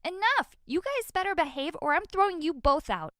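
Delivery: put-on big sister screaming at fighting kids. A narrator's reading. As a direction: shout them apart, at the end of your rope. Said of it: "I screamed".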